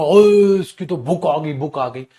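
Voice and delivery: excited mock yell; ओए, मज़ाकिया ऊँची पुकार; mock shout. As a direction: hype it like a hawker. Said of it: "मैं पागल कुत्तों की तरह चिल्ला रहा हूंगा".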